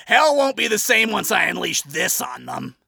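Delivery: loud, high maniacal laugh into a boast; villain laugh and gloat. A narrator's reading. Adam gloating in his hideout, maniacal. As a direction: cackle like a villain.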